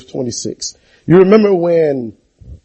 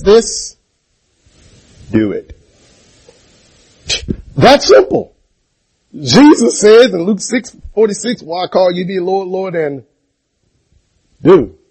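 loud, higher preacher's declaration; preaching; 4 semitones higher, 4 dB louder than usual. Acted. Preacher proclaiming Jesus's words to the church, forcefully. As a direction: proclaim the verse with full force.

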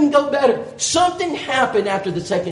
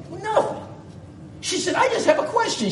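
Sharon's voice; 10 semitones higher, 5 dB quieter than usual. Retold or imitated.

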